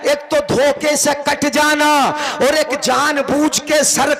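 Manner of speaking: sustained, emphatic preaching delivery; sermon declamation. Acted. Preacher explaining Ala Hazrat's verse to the congregation, declaimed. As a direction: press the distinction home in ringing phrases.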